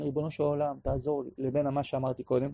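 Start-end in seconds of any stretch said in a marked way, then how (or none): 0.0-1.3 softly asking for help; quiet plea. Shown as a demonstration. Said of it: "מה ההבדל בין". (בקשה שקטה ורגועה)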